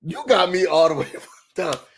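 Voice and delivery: laughing through the line. Real, not acted. Host reacting to the peasant insult, laughing. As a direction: chuckle it out. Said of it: "first take, laughing".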